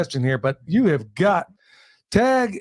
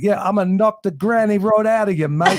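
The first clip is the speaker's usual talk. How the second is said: put-on a light, half-hearted British accent; tossing off a mock British threat; 3 semitones higher than usual. Joking impression for the guest, in a faint British accent. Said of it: "Billy with a British accent".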